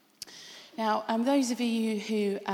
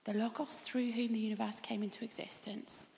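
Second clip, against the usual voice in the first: hushed awe; 7 dB quieter than usual. Real, not acted. Awed description of Jesus.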